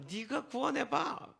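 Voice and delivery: high, drawn-out sneering taunt; mocking jeer. Robber dares Jesus to save him, mocking. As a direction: jeer it slowly in a high put-on voice. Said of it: "조롱을 합니다".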